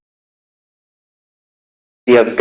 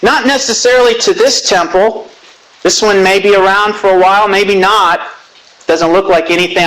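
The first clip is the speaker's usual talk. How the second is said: higher-pitched, insistent assurance; raised pitch, emphatic address to a discouraged audience; 6 semitones higher than usual. Acted. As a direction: speak for the chronicler, pressing each point emphatically. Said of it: "very emphatically".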